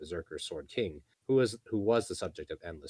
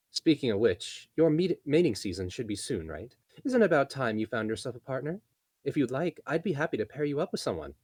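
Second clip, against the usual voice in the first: teasing elf voice; 7 semitones higher, 5 dB louder than usual. Acted. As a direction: nudge her playfully. Elena teasing matchmaker.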